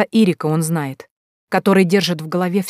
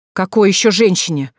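flaring up; 2 semitones higher, 3 dB louder than usual. Acted. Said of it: "взвилась Карима".

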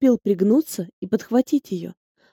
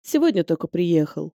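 polite; 4 semitones lower, 4 dB quieter than usual. A narrator's reading. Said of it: "вежливо ответил Нариман".

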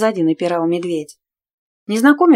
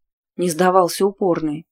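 ordinary delivery, nothing marked

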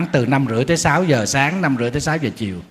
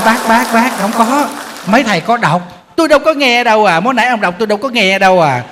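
excited retort; 5 semitones higher than usual. Retold or imitated. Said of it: "thầy nói".

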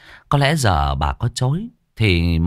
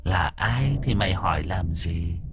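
eerie ghost voice; 5 dB quieter than usual. Acted. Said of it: "giọng ma quái ghê rợn".

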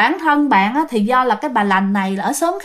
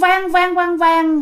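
imitated echo, held higher; âm vang; 4 semitones higher, much slower than usual. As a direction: chant it like a ringing echo. Teller imitates the echoing laugh. (âm thanh vang vọng)

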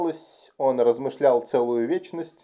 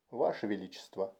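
soft, understated astonishment; hushed, taken aback by what was heard; stunned; 3 semitones lower, 10 dB quieter than usual. A narrator's reading. Officer answering the king's secret request, quietly stunned. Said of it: "Толлер, ошеломлённый".

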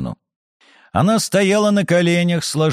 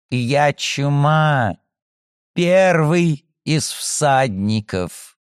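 menacing; much slower than usual. Acted. Plague spirit declares herself.

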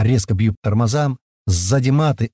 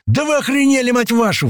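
furious, much higher shout; a soldier furious at the radio operator; exploding in anger; 13 semitones higher than usual. A narrator's reading. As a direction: blow up at them. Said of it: "взрывается Паштет".

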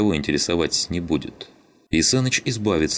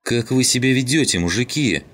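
raised, high scolding appeal; dismayed exclamation; 8 semitones higher, 3 dB louder than usual. A narrator's reading. Klim cries out to the quarrelling men, scandalized. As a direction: stop them, shocked at the fighting. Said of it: "воскликнул Клим".

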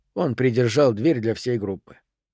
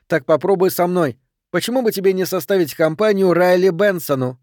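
higher, heated taunt; indignant, raised pitch; angry challenge; 5 semitones higher, 3 dB louder than usual. Acted. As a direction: dare him to take you on. Challenge to fight.

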